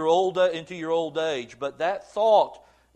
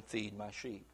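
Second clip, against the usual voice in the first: very soft, low command; hushed charge; 8 semitones lower, 15 dB quieter than usual. Retold or imitated. Jesus' final charge to Peter, hushed and low. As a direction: let it fall almost to a hush.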